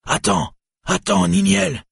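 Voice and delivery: builds from a call to a high, loud, slow shout; stumbling after her, shouting her name; desperate shout. A narrator's reading. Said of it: "trébuchant et criant". (cri désespéré qui monte très haut)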